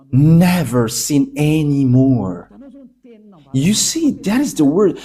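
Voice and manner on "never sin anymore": never sin anymore drawn out slowly, NEVER weighted; slow, heavy stress on never. Shown as a demonstration. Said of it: "emphasized clearly".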